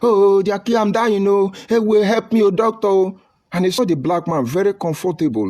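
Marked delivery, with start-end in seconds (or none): 0.0-3.1 high, loud fake agony; mock shouting in pain. White man with a scratch shouting to the doctor, high mock agony. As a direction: overdo the cries of a scratched man.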